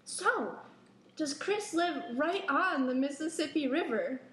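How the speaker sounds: mock fatherly questioning, a bit animated; imitating dad. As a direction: quote a prying dad's question. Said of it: "he's like".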